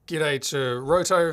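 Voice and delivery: slow, loud Australian greeting; broad Australian accent. Shown as a demonstration. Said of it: "with my most Australian accent".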